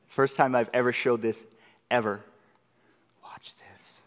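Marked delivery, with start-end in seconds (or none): 3.2-4.0 "Watch this." as a breathy secret whisper. Shown as a demonstration.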